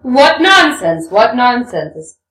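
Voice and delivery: slow, drawn-out and loud; taken-aback exclamation. Acted. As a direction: recoil at the offer. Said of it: "exclaimed Rakitin, taken aback".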